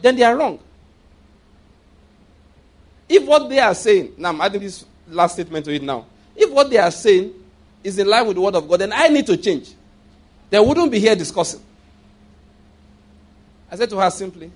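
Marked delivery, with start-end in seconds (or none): 0.0-11.6 preaching climax. Acted. Preaching climax on being wrong.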